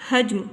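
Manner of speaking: हजम with j running straight into m; correct pronunciation. Shown as a demonstration. Teacher gives the right reading, हजम with j and m joined. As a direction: say हजम as haj-m, no vowel after j. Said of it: "सही तलफ़ुज़ है इसका".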